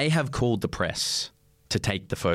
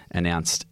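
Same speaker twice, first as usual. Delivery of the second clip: "announced" repeated low with deliberate weight; stress on announced; 3 semitones lower than usual. Shown as a demonstration. Host correcting the record on his breakup, pointed "announced". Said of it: "emphasis on the word".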